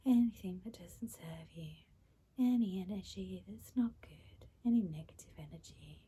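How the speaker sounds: soothing meditation guide with long pauses; guided meditation. Acted. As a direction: guide their breathing, unhurried and calming. Leads breathing and release.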